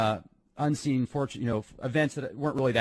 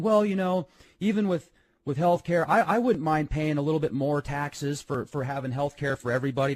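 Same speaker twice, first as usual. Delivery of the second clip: lightly imitated mom, raised pitch easing back; quoted mom; 4 semitones higher than usual. Son or daughter retelling mom's healthcare remark, lightly imitated. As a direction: gently put on mom's higher voice. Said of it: "my mom was saying".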